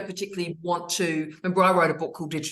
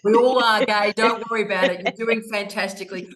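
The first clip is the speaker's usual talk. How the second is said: loud cheery reassurance; 3 semitones higher, 4 dB louder than usual. Real, not acted.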